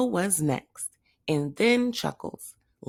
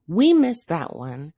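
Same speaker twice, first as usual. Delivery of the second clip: announced; 6 dB louder than usual. Acted. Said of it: "and announced".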